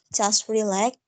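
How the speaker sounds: casually told to relax; a relaxed, casual invitation to chill; casual and slow. Shown as a demonstration. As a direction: take it easy, unhurried. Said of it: "casually and slowly".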